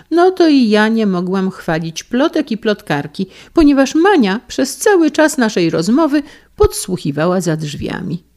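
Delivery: high, loud retort; a wife answering her husband, high and loud. Acted. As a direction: win the point sharply.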